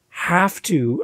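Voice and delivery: "have to" said slowly, heavy on "have"; stress on have to. Shown as a demonstration. Podcaster mocking gurus' demands, stressed "have to". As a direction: punch "have to" like a rule. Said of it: "can I stress the word have to".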